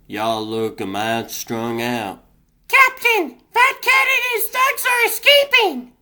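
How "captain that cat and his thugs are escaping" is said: much higher, loud urgent cry; urgent shout. Acted. Hero yelling to the captain as the villains flee. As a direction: shout the warning before they get away.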